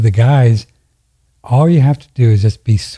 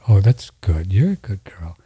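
sweet words to the dog; 2 semitones lower, 3 dB quieter than usual. Retold or imitated. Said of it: "in just the sweetest words ever".

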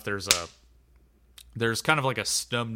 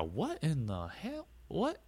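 high, loud startled redneck trucker; trucker Doug; 5 dB louder than usual. Acted. Trucker Doug asking George about the creature, high and loud. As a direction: gawk at the creature like a bewildered good ol' boy. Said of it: "Doug just kinda has, like, a".

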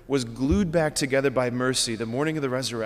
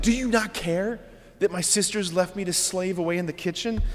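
whiny Martha; 5 semitones higher than usual. Retold or imitated. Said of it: "what she's doing. Like".

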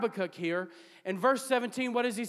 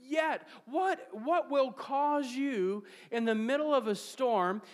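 preacher voicing a questioner's amazement; rising wonder; 2 semitones higher than usual. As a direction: ask it with growing amazement. Questioning voice raised high.

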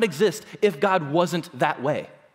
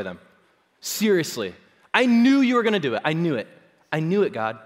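sulky adolescent. Retold or imitated. Preacher voicing Jonah's petty prayer as a whiny teen. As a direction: throw God's kindness back like a sulking kid. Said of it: "He sounds like a little adolescent kid".

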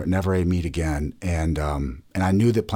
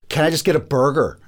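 put-on higher, louder kid voice; eleven-year-old son; 8 semitones higher, 5 dB louder than usual. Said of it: "and I'll do his voice".

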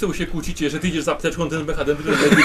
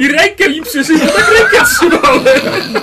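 high, slow words through laughter; can barely get it out for laughing; real laughter, high and slow; 11 semitones higher, 11 dB louder, slower than usual. Real, not acted.

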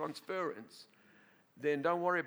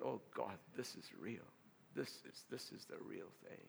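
hushed, breathless whisper of awe; awed whisper; 8 semitones lower, 11 dB quieter than usual. Retold or imitated. Pastor to himself on feeling God's fire, awed whisper. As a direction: breathe it as if overwhelmed by something holy.

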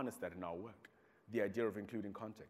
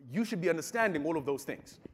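laughing; 6 semitones higher, 8 dB louder than usual. Retold or imitated. Uncle's point, laughing.

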